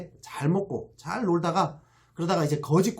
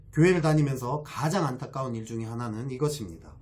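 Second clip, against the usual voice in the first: normal talking voice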